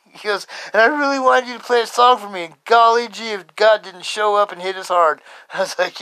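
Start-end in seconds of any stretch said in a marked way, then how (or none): 0.7-5.2 high-pitched, enthusiastic quote; retold delight. Friend marvelling after the song, delighted. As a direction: start high and gush, easing off.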